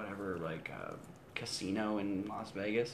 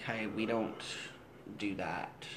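mock British accent; 2 semitones lower, 5 dB quieter, slower than usual. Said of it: "in a British accent".

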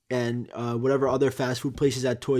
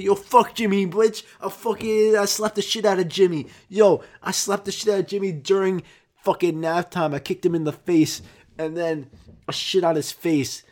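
imitating a crude teacher, higher and a bit louder; mock rude teacher; 5 semitones higher, 3 dB louder than usual. A parent asks about Jimmy, teacher mocks him in a high rude voice. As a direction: play the mean teacher cussing out a parent, raised high.

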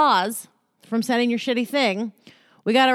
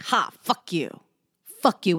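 fake-smiling jab; 3 semitones lower than usual. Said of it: "with a smile".

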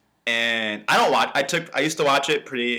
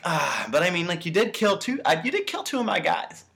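higher-pitched, casual haggling, imitating a villain; charming villain reasoning it out; very charismatic; 5 semitones higher than usual. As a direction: reason lightly, as if it were only fair. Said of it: "he's still being, like, very charismatic".

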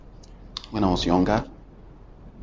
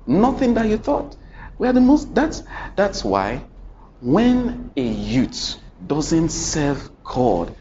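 climactic preaching; 5 semitones higher than usual. Real, not acted.

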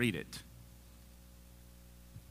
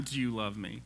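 questioning; 3 semitones lower than usual. Shown as a demonstration. Jesus probing Peter's love, questioning. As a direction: ask it as a real doubt.

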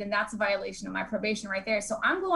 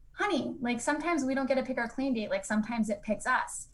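softly voiced, unruffled sponsor; imitated serene reassurance; 3 dB quieter than usual. Sponsor consoles crying newcomer, lightly imitated serene calm. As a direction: console gently, keeping it understated. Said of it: "looks at me all serene".

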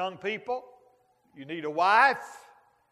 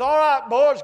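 Elijah calling out; 3 semitones higher, 6 dB louder than usual. Retold or imitated. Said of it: "He says".

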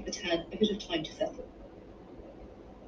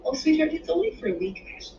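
high, soothing lift on the endearment; motherly reassurance; reassuring mother; 8 semitones higher than usual. A narrator's reading. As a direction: console a child with a tender lilt. Mother reassures her solemn child.

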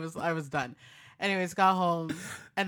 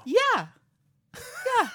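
mom voice; 5 dB louder than usual. Retold or imitated. Mom answering on phone.

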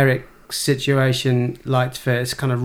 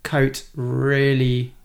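coat drawn out slowly, plummy; posh accent; much slower than usual. Shown as a demonstration. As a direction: stretch the word coat in a posh drawl. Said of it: "in a really posh accent".

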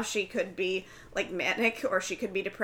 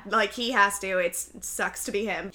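hard-ass friend; 3 dB louder than usual. Retold or imitated. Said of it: "she's a hard ass".

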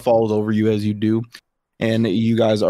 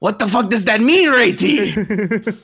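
high, indignant lizard whine; indignant high creature; 10 semitones higher, slower than usual. Acted. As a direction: protest like a confused minion. Yuan-ti protests in character.

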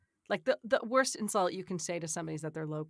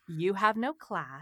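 slow mock condescension; imitated patronizing put-down; slower than usual. Driver to another in road rage, mock patronizing. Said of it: "I'm the patronizing one".

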